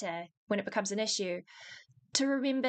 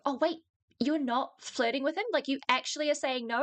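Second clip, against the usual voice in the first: retold disbelieving coworkers; 3 semitones higher than usual. Retelling coworkers' surprised question.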